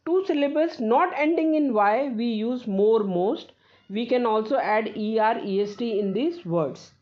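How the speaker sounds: slow, careful reading of a rule; slow dictation. Acted. Teacher dictating a grammar rule to students, slow and careful. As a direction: read the rule slowly so students can copy it.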